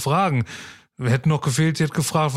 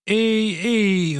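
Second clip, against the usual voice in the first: calling out; 8 semitones higher than usual. Acted. Wife calling back from dock.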